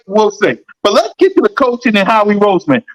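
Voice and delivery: usual speaking voice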